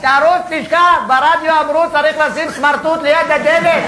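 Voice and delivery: hammed-up panicking wife; panicked orders.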